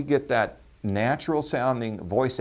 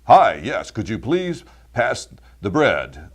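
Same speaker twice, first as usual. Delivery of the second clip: big, loud radio voice, slow over the last words; dinner guest talking in a booming announcer voice; 8 dB louder, slower than usual. Shown as a demonstration. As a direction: boom like a radio host asking for bread. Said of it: "somebody like this".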